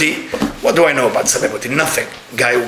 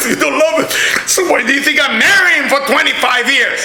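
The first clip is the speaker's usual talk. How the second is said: indignant shout; 9 semitones higher than usual. Retold or imitated. Rabbi retelling the rich lady's reply: high indignant shout. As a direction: throw the line back at her at full volume. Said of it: "I said".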